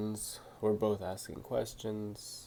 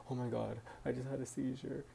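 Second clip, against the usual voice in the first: fast, lightly acted panicked gasp; mock panic; 3 semitones higher, 5 dB quieter, faster than usual. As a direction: rush it like sudden alarm. I'll be, like, crying.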